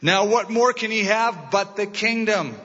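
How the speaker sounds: pouty voice. Acted. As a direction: pout like a spoiled boy king. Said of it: "Pouty Boy King".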